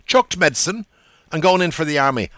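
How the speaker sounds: put-on young man's voice. A narrator's reading. Young man's quoted line.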